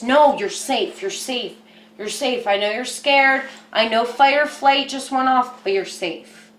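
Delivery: soothing reassurance. Pretend. Soothing own frightened inner child.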